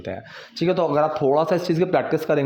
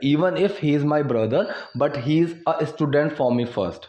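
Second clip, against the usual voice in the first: very slow, word by word for learners; slow model reading; much slower than usual. Shown as a demonstration. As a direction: spell it out slowly like a teacher. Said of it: "teacher models English sentence". (बहुत धीमे, शब्द-दर-शब्द पढ़ाते हुए)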